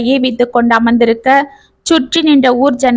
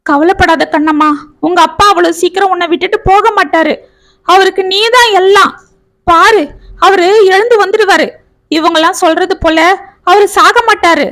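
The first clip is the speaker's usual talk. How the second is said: sobbing; 6 semitones higher than usual. A narrator's reading. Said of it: "என்றான் செந்தில் தேம்பிக் கொண்டு".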